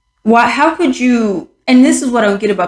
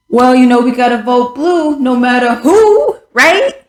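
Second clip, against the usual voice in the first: mocking party voter; 3 semitones higher than usual. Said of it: "Think about it".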